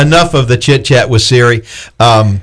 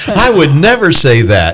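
higher, swooping mock protest; mock indignation; 5 semitones higher than usual. Joking host disowning what Siri typed for him, mock indignant. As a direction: protest in playful disbelief.

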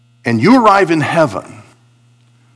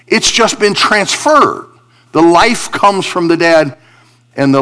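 raised pitch, driving sermon delivery; emphatic preaching; 5 semitones higher, 4 dB louder than usual. Real, not acted. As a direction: preach it in punched, separated phrases.

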